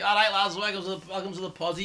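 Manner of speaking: matey, tipsy Scouse greeting; boozy natural Scouse. Shown as a demonstration. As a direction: slip into thick pub Scouse. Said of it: "And then you have a bevy".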